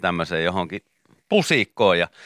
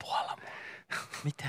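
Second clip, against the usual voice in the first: tiny aphid voice; 4 semitones higher, 19 dB quieter than usual. Pretend. Aphid talking into ear.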